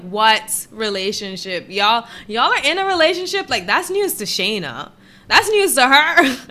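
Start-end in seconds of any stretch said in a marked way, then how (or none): 0.0-3.5 mock disbelief. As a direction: act stunned at the news. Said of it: "I'm like".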